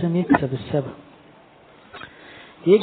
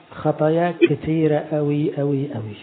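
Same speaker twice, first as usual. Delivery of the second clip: accusing devil. Acted. Satan whispering guilt in ear.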